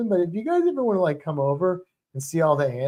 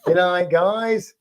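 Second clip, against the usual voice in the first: slow, drawn-out southern imitation; mock southern accent; much slower than usual. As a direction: imitate a botched Australian gone southern. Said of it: "That went southern real fast".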